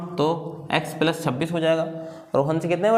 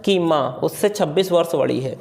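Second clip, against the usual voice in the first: reading the question aloud. Shown as a demonstration. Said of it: "पढ़ के दिखा, सुनाते हैं।".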